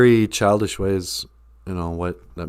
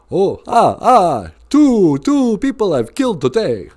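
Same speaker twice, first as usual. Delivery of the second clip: higher, lightly voiced Count counting his kills; 7 semitones higher, slower than usual. Lightly voiced Count tallying his victims for the day. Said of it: "The Count killed them".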